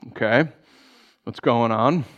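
low, mock-sober concern; suppressing a smile. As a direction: feign gravity while hiding glee. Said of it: "I try not to smile".

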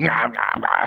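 garbled chewing noises; imitated mouth-full talk. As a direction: mimic talking through a mouthful. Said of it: "talking with his mouth full of food".

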